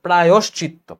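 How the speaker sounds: প্রায়শ্চিত্ত with a clear "yosh"; corrected pronunciation. Shown as a demonstration. Teacher repeating the correct word, প্রায়শ্চিত্ত with o. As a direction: say প্রায়শ্চিত্ত as "pra-yosh-chit-to". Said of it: "অন্তস্থির সাথে ওকার হবে".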